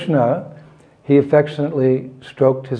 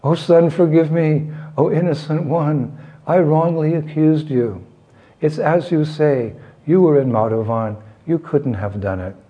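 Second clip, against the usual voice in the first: higher, lightly acted lament, settling at the end; feigned remorse, pitch lifted then falling away; louder mock crying; 4 semitones higher than usual. Mother fooling her son, mock tearful begging for forgiveness. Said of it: "cried even louder".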